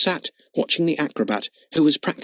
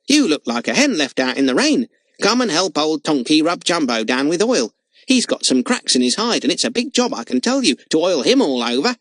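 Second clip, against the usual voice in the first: cheery, bouncy clown greeting; a clown cartwheeling round a boy; jolly clown. Acted. Clown cheers up glum Jimmy, jolly bouncy voice.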